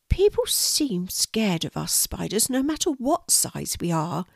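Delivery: gently mournful little spider; sad spider. Acted. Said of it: "said the spider sadly".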